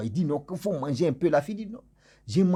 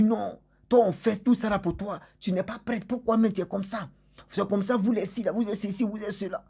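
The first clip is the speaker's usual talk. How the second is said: raised pitch, scolding, building into a mock tirade; retold angry rant; 7 semitones higher than usual. Man scolding the girl who won't eat, mock angry rant. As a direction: scold her like a man whose effort was snubbed. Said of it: "il s'est fâché".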